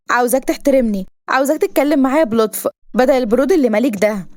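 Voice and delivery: a hint of a bossy heroine; demanding heroine. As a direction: demand respect, mildly indignant.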